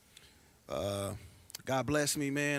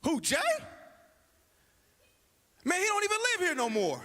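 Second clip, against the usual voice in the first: in character; 13 semitones higher than usual. Acted. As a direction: deliver it like your big screen moment. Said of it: "let me get in character".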